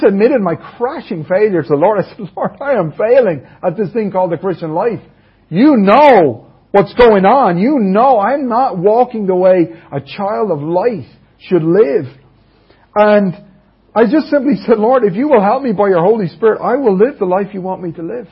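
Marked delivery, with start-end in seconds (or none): 2.3-12.1 impassioned retold prayer. Admitting failure to the Lord, impassioned plea. 14.8-18.3 earnest retold prayer.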